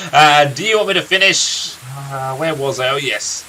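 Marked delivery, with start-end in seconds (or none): 1.9-3.5 a lightly voiced grizzled old storyteller, unhurried; a gruff old warrior recounting his friend's youth; storyteller NPC. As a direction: tell the tale like a weary veteran by the fire.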